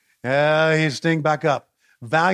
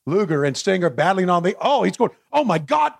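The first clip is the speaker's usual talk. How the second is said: ordinary talk, nothing marked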